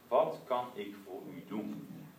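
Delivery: slow, gentle kindly question. Retold or imitated. Jesus gently asking the blind man, slow and kind. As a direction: offer help tenderly. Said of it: "Dan zegt Jezus".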